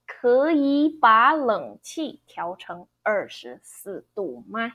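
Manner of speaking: 可以把冷气 with 可, 以 and 把 all rising second tones, 冷 third. Shown as a demonstration. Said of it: "second, second, second, third".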